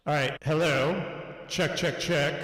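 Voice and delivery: echoey voice like a cave; cave echo effect. Real, not acted. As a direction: reverb as if inside a cave. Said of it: "sounds like you're in a cave".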